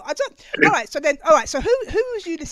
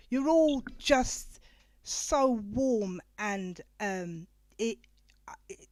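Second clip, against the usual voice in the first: choked up; 7 dB quieter, much slower than usual. Real, not acted. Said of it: "don't even let me get my tissues out here".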